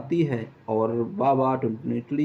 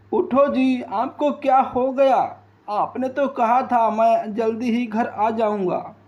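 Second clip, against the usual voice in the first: higher, anguished lament over her dead husband; mild acted wailing at God; grieving wife; 5 semitones higher than usual. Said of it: "वहीं बैठी बैठी रो रही थी". (मरे पति पर विलाप करती पत्नी, हल्का रोना)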